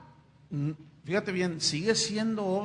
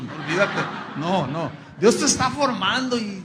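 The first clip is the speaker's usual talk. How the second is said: normal talking voice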